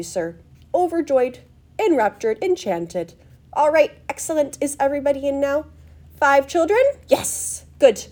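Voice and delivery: high, loud, gushing welcome; fluty showman marshalling guests; eccentric host, excited. Acted. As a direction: bubble over with delight, stressing words emphatically. Story figure welcomes and marshals group.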